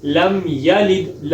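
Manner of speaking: لم یلد with a short ya and quick lam; careful demo of یلد; slow correct reading. Shown as a demonstration. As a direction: read لم یلد slowly, short ya. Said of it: "اس کو ہم ادا کریں گے".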